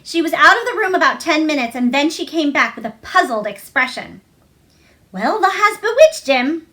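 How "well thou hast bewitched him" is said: higher and louder Yorkshire astonishment; amazed. A narrator's reading. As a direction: marvel at what she's done. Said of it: "she said".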